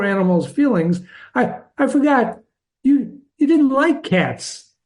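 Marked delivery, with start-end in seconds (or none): 1.3-4.7 higher, stammering apology; hasty, worried apology. A narrator's reading. Girl fearing she hurt the mouse's feelings, stammered apology. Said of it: "she cried hastily, afraid that she had hurt".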